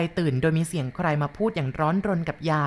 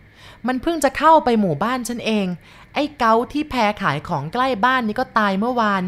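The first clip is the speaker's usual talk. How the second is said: higher and louder, urgent; agitated woman; 6 semitones higher, 5 dB louder than usual. Acted. Sorn urgently tells grandma about the deaths. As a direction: tell it in agitated haste.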